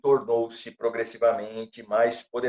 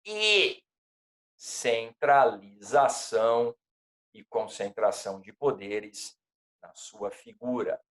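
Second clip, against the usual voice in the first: dictating; 3 semitones lower than usual. Shown as a demonstration. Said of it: "Quer que eu repita?".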